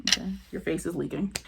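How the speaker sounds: quiet, unimpressed deadpan; expressionless deadpan. Retold or imitated. Unmoved moms watching someone cry, quiet deadpan. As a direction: say it softly with no expression at all. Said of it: "I don't even know if they had any expression".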